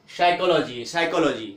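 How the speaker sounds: साइकोलॉजी starting straight on the s; silent P. Shown as a demonstration. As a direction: say साइकोलॉजी with no p at the front. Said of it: "तो क्या बोलेंगे?".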